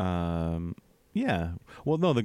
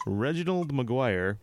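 voice cracking; 3 semitones higher, slower than usual. Real, not acted. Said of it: "Whoa, what happened there?".

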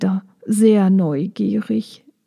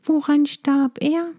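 higher little-bee voice, gently asking; sincere sympathy; 6 semitones higher than usual. Acted. Maya asks Schnuck about her brother: sincere and gentle. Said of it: "in aufrichtiger Teilnahme".

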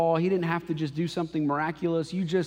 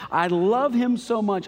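loud and slow, pouring it out; passionate declaration; 6 semitones higher, 5 dB louder than usual. Real, not acted. Preacher to congregation, declaring love for God, loud. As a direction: proclaim it with full force.

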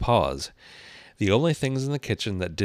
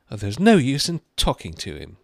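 high, loud exasperation; desperate Alice, pitched up; 5 semitones higher, 7 dB louder than usual. A narrator's reading. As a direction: give up on him in a raised girl's voice. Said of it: "said Alice desperately".

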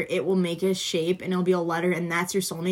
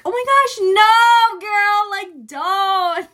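laughing protest; 13 semitones higher, 8 dB louder, much slower than usual. Retold or imitated. Refusing teacher's coffee offer.

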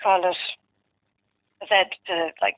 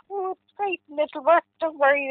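put-on hopeful child; 8 semitones higher than usual. Son's happy reassurance.

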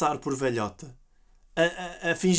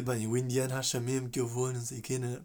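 off-mic aside; 7 semitones lower, 9 dB quieter than usual. Retold or imitated. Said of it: "desliga o micro só para falar connosco".

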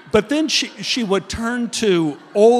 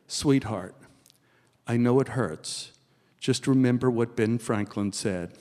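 sweetly; 5 semitones lower than usual. Retold or imitated. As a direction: soothe him like a gentle mom. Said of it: "say very sweetly".

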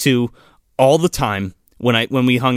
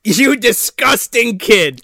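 laughing; 7 semitones higher, 3 dB louder, much slower than usual. Acted. Laughing mock insult.

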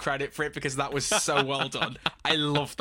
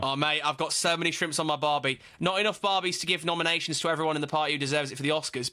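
jokey put-on Aussie accent; Australian accent. Host angling for love from Aussie caller, Australian accent. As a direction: play up a mock Australian accent. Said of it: "if I do an Australian accent".

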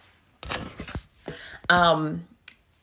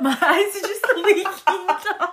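high, slow, laughing echo; mocking repeat; 12 semitones higher, 4 dB louder, slower than usual. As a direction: tease by echoing it high and slow. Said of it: "friend repeating the quote mockingly".

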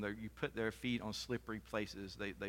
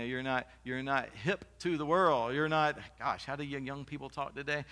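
mock scolding parent; 3 semitones higher, 5 dB louder than usual. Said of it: "that's how they would say it".

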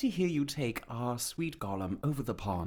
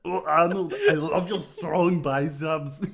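swooning soap lover; 2 semitones higher, 5 dB louder than usual. Acted. Soap opera lover to Arnold.

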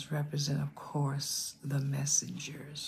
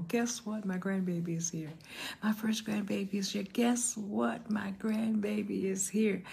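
higher-pitched, happy announcement, acted out; retold excitement; 4 semitones higher than usual. New grandmother calling everybody about her first grandbaby, retold excitedly. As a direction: re-enact breaking thrilling news, pitch lifted without shouting. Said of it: "I was so excited".

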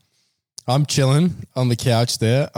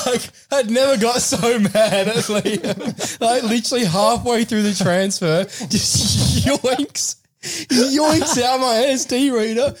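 high, slow, laughing indignation; laughing while telling; 10 semitones higher, slower than usual. Real, not acted. Telling friends how Liam yanked the reader, high and laughing. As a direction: laugh your way through the complaint. Laughing retelling of being mad.

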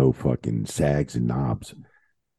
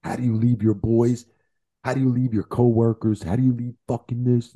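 mock outraged rant; 8 semitones higher than usual. The speaker ranting about leaving the boys.

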